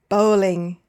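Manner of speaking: BOWL-ing, weight on the first syllable; first-syllable stress. Shown as a demonstration. Teacher answers the exercise with "bowling", first syllable stressed. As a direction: stress the start of "bowling", ending unstressed. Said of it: "stressing, of course, the first or second syllable".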